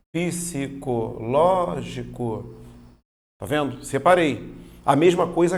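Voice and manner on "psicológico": "psicológico" slowly broken into syllables. Shown as a demonstration. Teacher separating a word for class, slow syllable by syllable. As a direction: stretch out each syllable of "psicológico", pausing between. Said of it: "Então, ó".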